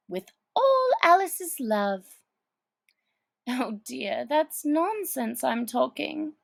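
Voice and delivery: put-on high girlish thinking aloud; lightly voiced Alice planning; Alice musing. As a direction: puzzle it out like a child. Alice imagines the address.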